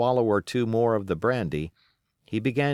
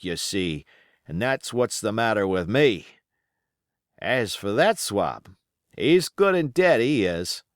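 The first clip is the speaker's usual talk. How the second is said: put-on wounded old pirate, rough and grumbling; pirate sailor; 2 semitones higher, 3 dB louder than usual. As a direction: play the injured seaman, griping. Pirate Hands speaks wounded.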